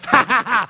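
retold triumphant "ha, ha, ha"; hammed-up victory cackle; mock gloating laugh. Husband gloats after zipping.

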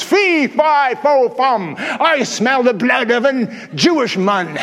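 a hint of a mocking giant voice; taunting giant. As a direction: taunt them like a giant, lightly. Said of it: "he starts taunting them and says".

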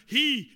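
"He" punched out loud; stress on He. Real, not acted. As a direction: hammer the word "He". Hammering the pronoun he.

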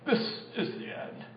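whispered, dying-away doom line; dramatic movie whisper. Shown as a demonstration. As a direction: breathe it like the last line of a film. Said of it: "You gotta say it like that so we can do movie style".

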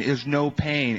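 usual speaking voice

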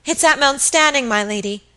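high, loud, urgent cry; alarmed cry. A narrator's reading. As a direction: cry the bad news out to the mistress. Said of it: "cried Phoebe Marks".

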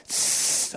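soft voiceless imitated hiss; cat hiss. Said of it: "I see a cat go".

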